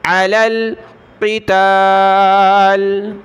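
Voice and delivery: क़िताल ending on a stopped lam; pausal form. Shown as a demonstration. Teacher shows the pause form at a stop. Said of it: "जब रुकेंगे, वक़फ़ करेंगे तो".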